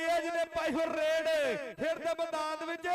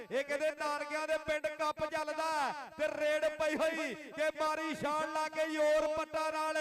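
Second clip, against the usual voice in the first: frantic rural sports commentary. Acted. Live kabaddi commentary.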